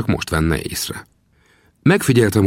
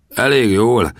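higher-pitched, doubting question; incredulous echo; 5 semitones higher, 3 dB louder, slower than usual. Acted. Gunsmith challenges the young man's boast, incredulous. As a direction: throw it back in disbelief. Harry throws the answer back scornfully.

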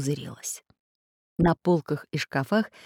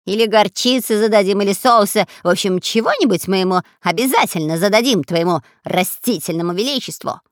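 loud teasing robber voice; mocking; 2 semitones higher, 6 dB louder than usual. Spy mocking the parrot's master. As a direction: taunt the parrot.

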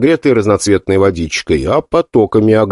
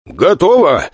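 shouted; 5 semitones higher, slower than usual. Acted. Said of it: "прокричал Бом".

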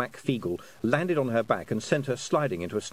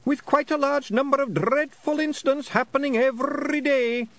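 groaning lament recital; 5 dB louder than usual. Acted. A pixie poet reciting awful verse at the fairies, high groaning declamation. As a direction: declaim terrible verse like a tragic bard.

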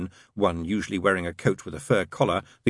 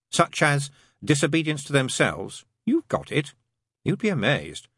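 higher-pitched, lively demon character; lightly voiced demon; 6 semitones higher than usual. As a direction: explain it wryly as the demon.

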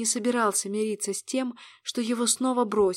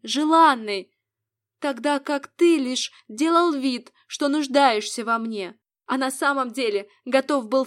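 accusing woman; 3 semitones higher, 4 dB louder than usual. Acted.

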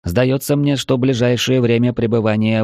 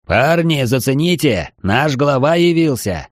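excited call; 5 semitones higher than usual. Acted. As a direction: call the gang over excitedly. Friend calling out excitedly.

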